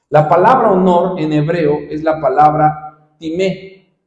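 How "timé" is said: timé with the stress on the final é, said slowly. Shown as a demonstration. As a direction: say timé as ti-MÉ, leaning on the last syllable. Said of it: "con acento en la E".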